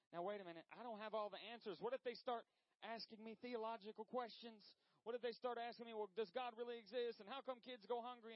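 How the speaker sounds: acted worried objections. Voices a worried inviter's objections.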